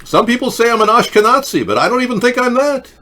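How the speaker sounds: high put-on Jewish accent. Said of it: "could you do a Jewish voice?".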